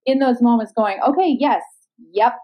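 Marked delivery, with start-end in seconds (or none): 1.1-2.3 high, light sing-song self-talk; mock cheerful acceptance, much higher; playful high inner voice. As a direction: chirp it brightly, laughing through.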